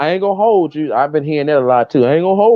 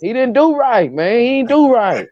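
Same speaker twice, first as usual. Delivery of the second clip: mock protest; 7 semitones higher than usual. Insisting to the panel he didn't do right, high mock protest. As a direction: stretch and drop on "do right".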